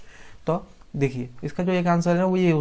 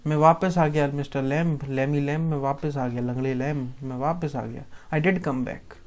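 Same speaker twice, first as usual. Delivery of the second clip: pleading, fading. Acted. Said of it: "mister लेम से बोलता है".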